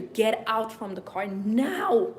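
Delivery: loud, slow, emphatic order; forceful retold warning, drawn out; urgent inner command. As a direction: command it firmly, stretching the last word.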